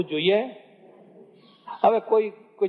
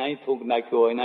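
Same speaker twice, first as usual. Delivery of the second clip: rapid disgusted repeat; 4 semitones lower, much faster than usual. Acted. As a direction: rattle off 'અહીં થૂંક નાખ્યું હોય ને' fast. Repeats spitting complaint, varied. (ઝડપી, અણગમાભર્યું પુનરાવર્તન)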